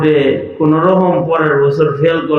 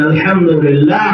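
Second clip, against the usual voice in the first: loud call. Real, not acted. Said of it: "জোরে বলেন".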